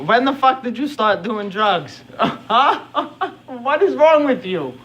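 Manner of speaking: real laughing disbelief; amused disbelief. Real, not acted. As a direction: scold through a laugh, incredulous. Amused scolding of the noisy parrot.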